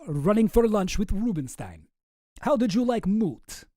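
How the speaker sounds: slow mock-Russian email reading; Boris with Russian accent. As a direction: put on a Russian accent, unhurried. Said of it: "a Russian accent".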